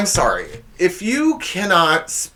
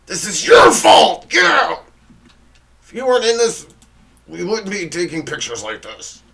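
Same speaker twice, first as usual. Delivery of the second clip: put-on a child blaming a sibling in photos; bratty child; 4 semitones higher than usual. Child yelling at sibling during photo shoot, bratty. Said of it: "how every child feels when they get their picture taken".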